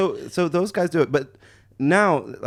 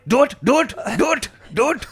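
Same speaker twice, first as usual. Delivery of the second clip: taunting dare; 6 semitones higher than usual. Retold or imitated. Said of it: "daring the scammer".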